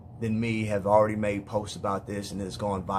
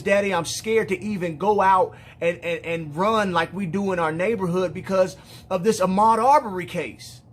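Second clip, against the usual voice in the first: higher, louder retelling with stammered urgency; imitating distressed pleading, raised voice; retold tearful fear; 6 semitones higher, 4 dB louder than usual. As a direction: relay a crying daughter's fear, agitated. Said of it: "she's crying and tears are rolling down her face".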